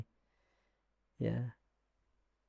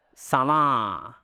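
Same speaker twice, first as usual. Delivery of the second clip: nasal voice; 3 semitones lower than usual. Shown as a demonstration. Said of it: "Suara hidung".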